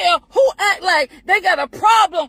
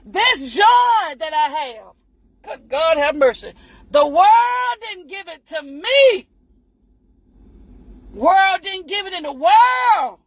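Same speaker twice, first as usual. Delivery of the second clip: preaching. Real, not acted. Preaching about her joy.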